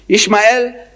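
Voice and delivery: "Ishmael" said as ish-ma-EL, three clear syllables; Hebrew-style Ishmael. Shown as a demonstration. To the audience, showing how Jews say the name: "Ishmael" as ish-ma-el. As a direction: give "Ishmael" the way they say it, ish-ma-el. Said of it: "that's how they say it".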